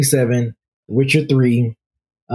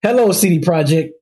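shaky ransom note reading; 2 semitones higher than usual. Acted. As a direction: read it like a hammy villain letter.

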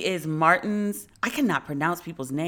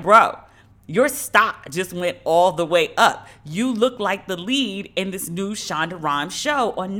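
loud, drawn-out hype; emphatic, punched-up "bro" talk; hyping a friend; 4 dB louder than usual. Retold or imitated. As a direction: break big news to a buddy, slowly. Acting out her text to friend.

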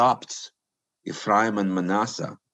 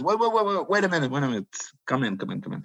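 eager call; 5 semitones higher, much faster than usual. Retold or imitated. Second official eagerly calls him in.

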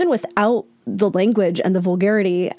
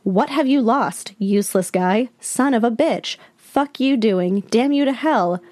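mock angry reading; 3 semitones higher than usual. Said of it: "The scammer then writes".

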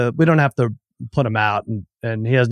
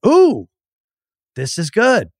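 mock delight; 3 semitones higher than usual. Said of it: "I was like".

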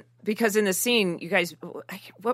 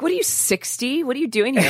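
high-pitched mock incredulous questions; teasing challenge; 6 semitones higher than usual. Retelling a farmer's market scene, teasing challenge. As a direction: quote her needling, pitched up.

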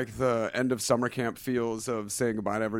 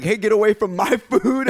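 shark voice; 7 semitones higher, 7 dB louder than usual. Retold or imitated. Voicing a shark.

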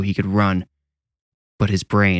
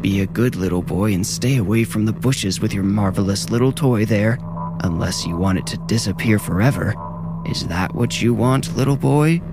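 lightly voiced crone, mocking; ancient, sick old woman. Old woman threatens the boy's toy, mock-sweet crone. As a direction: sneer sweetly like an old hag. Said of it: "She sounded ancient and sick".

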